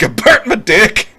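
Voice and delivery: high, slow put-on voice of a hurt kid; mock whiny kid. To his parent in the basement, high mock kid voice. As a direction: whimper it like a burnt little boy. Retold kid quote, comic.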